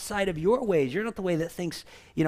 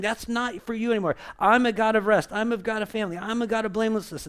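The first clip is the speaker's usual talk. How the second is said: higher, louder declaration as God; voicing the Lord; 6 semitones higher, 4 dB louder than usual. Pastor voices God declaring rest and family, raised. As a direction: announce God's nature firmly. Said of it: "What is he saying?".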